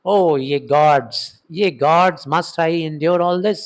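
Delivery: slow, pleading cry to the gods; mildly hammed-up Cassius appeal; slow, drawn-out lament to the gods. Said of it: "Cassius कहता है".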